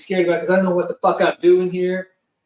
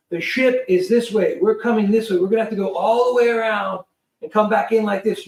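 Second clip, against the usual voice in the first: raised, steady instructions; crewman over headset; 4 semitones higher than usual. Retold or imitated. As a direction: talk him through it. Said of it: "and he goes".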